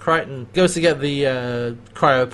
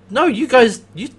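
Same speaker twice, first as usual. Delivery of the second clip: high, loud mock scolding; mock angry Crichton; 10 semitones higher, 7 dB louder than usual. Host as Crichton scolding Jotham and Chiana, mock anger. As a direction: tear into them in a hammed-up rage. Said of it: "it's like".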